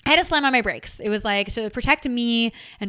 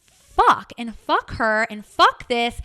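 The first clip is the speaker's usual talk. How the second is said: retold angry swearing; 5 dB louder, slower than usual. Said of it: "I get all up in my feels".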